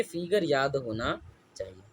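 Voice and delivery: फिगर stressed, soft and slow, falling; quiet answer. Shown as a demonstration. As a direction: answer softly, leaning on फिगर. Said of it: "क्या होना चाहिए?". (शांत आवाज़ में फिगर पर ज़ोर)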